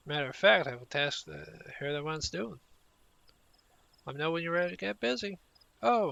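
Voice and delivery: lightly voiced rustic ranch hand, friendly and hearty; a hint of a folksy cowhand welcoming an adventurer; rancher NPC in made-up accent. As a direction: read the quest lines as a cheerful wrangler in a made-up rustic accent. Voices quest NPC Keitha.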